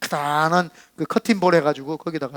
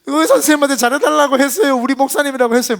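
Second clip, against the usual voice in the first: choked-up retelling; 8 semitones higher, 5 dB louder than usual. Retold or imitated. Pastor retells the tearful nurse.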